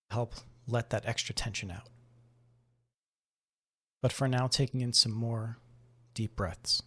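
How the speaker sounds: calm, measured meditation voice with long pauses; guided meditation. Acted. Host guiding listeners to breathe and notice the body, guided meditation. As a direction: ease them gently through breath and body awareness.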